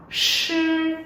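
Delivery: "sư" drawn out very slowly with the tongue curled; slow sound demo. Shown as a demonstration. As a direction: stretch the "sư" so students hear the friction. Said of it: "sẽ đọc là". (kéo dài "sư" thật chậm để minh họa)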